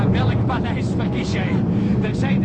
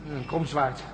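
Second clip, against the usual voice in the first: hushed; 7 semitones lower, 8 dB quieter than usual. Acted. Hushed exploring inside the palace.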